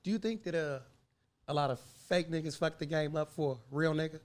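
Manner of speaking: white man voice. Acted. Host asks guest about fakes in white man voice. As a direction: put on a measured white man voice. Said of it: "go back into my white man voice".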